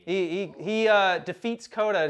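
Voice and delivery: usual speaking voice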